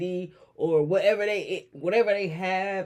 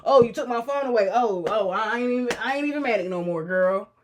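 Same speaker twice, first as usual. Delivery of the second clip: fake flattering; 4 semitones higher, 4 dB louder than usual. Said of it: "trying to manipulate me".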